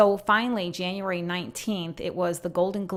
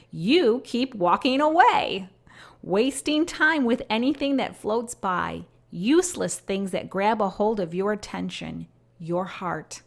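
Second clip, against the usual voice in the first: slow, grieving appeal fading away; pleading voice of God; slower than usual. Acted. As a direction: speak as a Father calling back a straying child. Voices God's lament.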